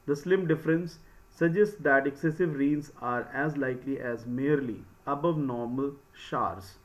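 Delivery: measured, slow passage reading; reading aloud. Real, not acted. Teacher reads the English passage to students, slow reading aloud. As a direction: read the article out slowly, phrase by phrase.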